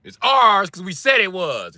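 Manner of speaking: put-on high, slow Italian-accented insistence; drawn-out mock-Italian boasting. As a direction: stake the claim as a stubborn Italian. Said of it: "The Italian accent".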